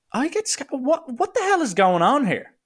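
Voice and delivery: high-pitched, baffled questioning; retold incredulity. Retold realising a possible scam.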